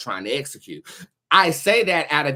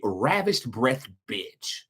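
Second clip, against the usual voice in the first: slow drawn-out insult; much slower than usual. Real, not acted. Insulting a critic.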